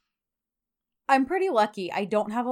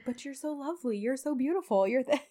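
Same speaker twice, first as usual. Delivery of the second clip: higher, soft mock sweet-talk; flirting; 4 semitones higher, 4 dB quieter than usual. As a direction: imitate him wheedling with compliments. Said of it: "don't flirt your way out of this".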